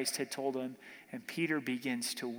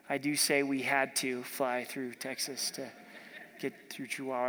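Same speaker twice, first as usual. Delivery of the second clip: lightly put-on Texan accent, a little lower; 3 semitones lower than usual. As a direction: playfully imitate a Texan. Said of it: "they've got an accent".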